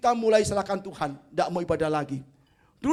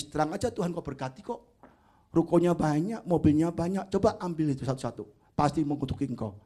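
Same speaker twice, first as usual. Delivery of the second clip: lower, sly voice of the devil accusing; devil's voice; 6 semitones lower than usual. Retold or imitated. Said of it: "Apa kata iblis?". (suara iblis rendah dan licik)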